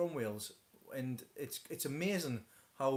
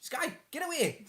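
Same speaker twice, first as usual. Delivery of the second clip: high, drawn-out, louder order; 13 semitones higher, 5 dB louder, slower than usual. Real, not acted. Parent sends child away from the stream, shooing. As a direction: shoo them off, high and stretched out.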